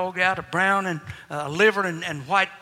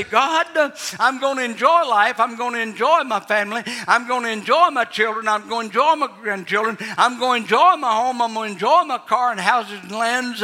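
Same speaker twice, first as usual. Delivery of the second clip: raised, earnest prayer voice, enjoy stressed each time; model prayer; 2 semitones higher, 4 dB louder than usual. Pretend. Preacher voicing the prayer he wants them to pray, lightly raised. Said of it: "every one of you say".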